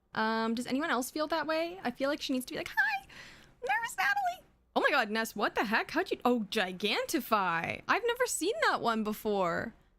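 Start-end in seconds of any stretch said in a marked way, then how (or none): 2.6-4.4 very high, squeaky little character voice. Showing how a nervous character should sound: higher-pitched voice. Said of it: "I feel like that's not high enough for her".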